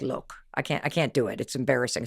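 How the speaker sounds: a hint of an embarrassed friend, low and soft; mock sheepish mumble. Friend admits he can't do the accent, mildly sheepish and soft. Marcus shy about accent.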